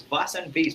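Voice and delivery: first "vase" as vahs, second "vase" as vayce; "vase" open as vahs, then "vase" rhyming with face; two pronunciations. Shown as a demonstration. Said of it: "two pronunciations of the same word".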